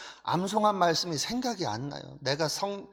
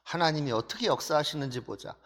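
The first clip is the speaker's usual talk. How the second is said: bold challenge. Retold or imitated. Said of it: "이런 담대함이 생기는 거죠".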